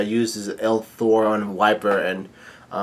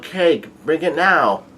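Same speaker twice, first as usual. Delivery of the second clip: slow, high, drawn-out order; mock yelled demand; 5 semitones higher, slower than usual. Big Mom demanding cake, drawn-out mock yell. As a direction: stretch each word into a demand. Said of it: "Big Mom yells out".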